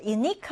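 unique with stress on the last syllable; stress on second syllable. Shown as a demonstration. Teacher introducing the word to learners, second-syllable stress. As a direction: put the weight on the "-nique" of unique. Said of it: "뒤듬절의 강세가 오게 되는데".

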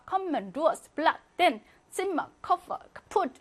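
every word from 컴men to 풋 with short quick vowels. Shown as a demonstration. Teacher listing examples, short vowels from 컴men to 풋. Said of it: "이렇게 발음합니다".

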